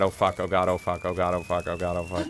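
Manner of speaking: frantic oh god, fading to a mumble; panicked muttering. Real, not acted. Panicking while playing the game.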